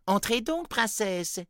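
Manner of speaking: high, loud elf voice; a cheerful little elf welcoming; christmas elf. A narrator's reading. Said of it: "dit le lutin".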